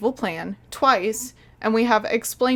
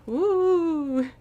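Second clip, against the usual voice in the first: high drawn-out mock woo; 7 semitones higher than usual. Reviewer mocking a grand prophecy, high drawn-out woo. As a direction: ooh in mock awe. Mock wonder at clichéd line.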